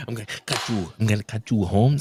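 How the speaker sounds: put-on murmured gangster threat in Mexican accent; mock Mexican threat. Co-host joining the pretend threat, soft mock Mexican accent.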